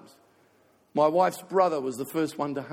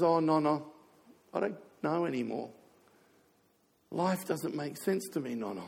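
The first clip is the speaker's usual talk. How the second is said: retold sad grandson; 6 dB quieter than usual. Retold words of grieving grandson.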